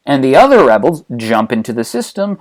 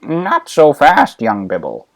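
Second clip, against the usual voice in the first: Yoda; 3 semitones lower than usual. Acted. Old master cautioning his pupil, lightly voiced Yoda. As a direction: draw out the warning, then sink lower. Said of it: "But Yoda's like".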